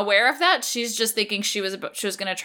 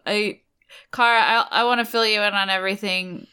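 put-on sad drunk. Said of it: "like, sad drunk".

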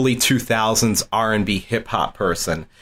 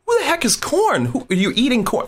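high, incredulous mock confusion; baffled. Asking his roommate about the band, high and baffled. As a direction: sound utterly lost, pitched way up.

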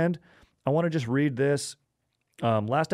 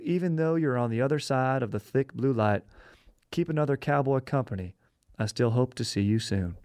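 cowboy poetry; 3 semitones higher than usual. Acted. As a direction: read it like a lonesome cowboy ballad. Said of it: "It's a cowboy poem".

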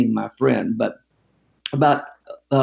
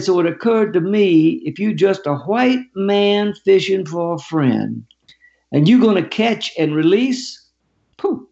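higher, slow, deliberate storyteller's imitation of him; plain-spoken Southern challenger; 5 semitones higher than usual. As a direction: lay down the challenge word by word, pitched up. Voices the homeless man's challenge.

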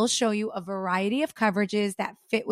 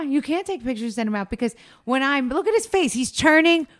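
laughing; 2 semitones higher, 4 dB louder than usual. Real, not acted. Laughing while teasing husband.

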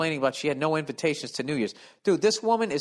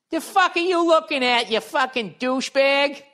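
high, loud snarling woman; shrill-free hammed-up snarl; mock cold East Coast woman; 10 semitones higher, 4 dB louder than usual. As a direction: sneer it like a hostile stranger. Imagined East Coast woman snapping.

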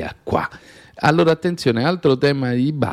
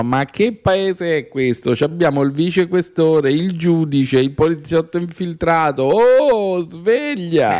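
higher, rising exasperated cry; indignant outcry; 7 semitones higher than usual. Real, not acted. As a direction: wake everyone up, exasperated. Indignant outburst about the judge.

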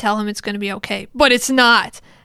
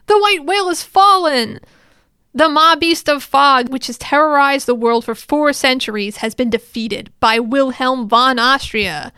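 loud, raised heroic announcement; victory proclamation; 3 semitones higher, 6 dB louder than usual. Retold or imitated. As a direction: proclaim it to the whole army, hammed up. Krusch to everyone is like.

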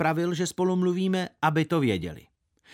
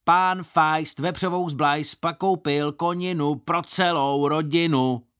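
jeering chant, slow and louder, higher; mocking shout; 4 semitones higher, 4 dB louder, slower than usual. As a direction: taunt him from afar, sing-song. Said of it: "začal křičet". (posměšné pokřikování z dálky)

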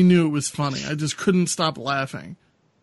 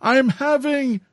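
higher, slow hammed-up pain; dramatic old man; 10 semitones higher, much slower than usual. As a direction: overact clutching his chest. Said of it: "a little bit more dramatic".

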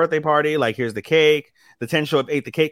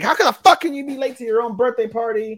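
high, mock-angry girls griping; 10 semitones higher than usual. Retelling the angry cafe girls, high mock outrage. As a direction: pitch it way up like indignant idol girls. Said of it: "They're like".

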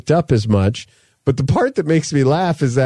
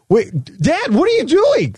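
mimicking his kid; 13 semitones higher than usual. Dad voicing his sons in game.

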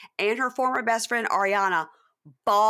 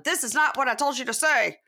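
higher-pitched mock exasperation; playful impression of an irritated coach; exasperated Sandoval; 7 semitones higher than usual. Cohost imagines Sandoval scolding his girlfriend for botching the script, exasperated.

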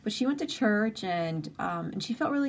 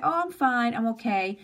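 brightly chirped false reassurance, higher pitched; fake fine; 3 semitones higher than usual. Answering a friend who asks, with fake cheer. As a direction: brush off the question with a cheerful lie. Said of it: "right away we say".

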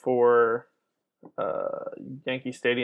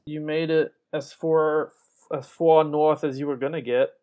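New York accent; 3 semitones higher, 3 dB louder than usual. Real, not acted. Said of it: "Apparently, I'm speaking a New York accent now".

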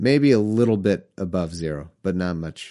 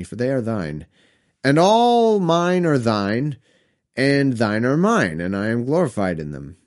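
solemn scripture reading. Acted. Reading Jesus's prayer aloud, solemn scripture voice. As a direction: intone it like a preacher.

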